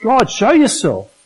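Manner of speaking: a lightly voiced anguished Job; crying out. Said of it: "he's crying out".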